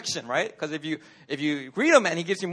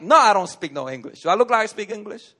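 mock irritated retort; 5 dB louder than usual. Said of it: "he's all like".

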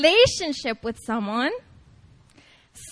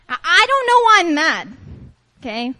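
louder, hammed-up girlfriend's complaint; exasperated girlfriend; 3 dB louder than usual. Woman venting about her relationship, comic exasperation. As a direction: play a worked-up girlfriend, comically mad. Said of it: "This is from a girl's per".

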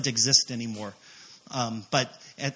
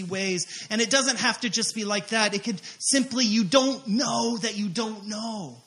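preaching exhortation; 6 semitones higher than usual. Real, not acted. Turns from story to exhortation.

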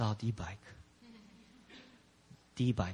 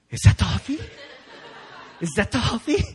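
loud question with a rising end; acted excited disbelief; 4 dB louder, faster than usual. Boy finds the bike on the patio, excited disbelief. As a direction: ask it in mock amazement, louder.

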